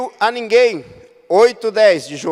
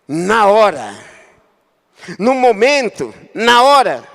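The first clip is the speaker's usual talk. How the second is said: loud repeated cry; emphatic preaching; 2 semitones higher, 6 dB louder, slower than usual. Real, not acted. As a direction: hammer the point home. (ênfase forte em voz alta)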